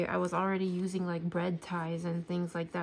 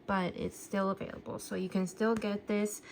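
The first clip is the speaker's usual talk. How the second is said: out of breath. Real, not acted. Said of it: "I'm a little bit out of breath".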